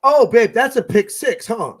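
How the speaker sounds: a hint of an eager girlfriend asking; imitating his girlfriend. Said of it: "she was like".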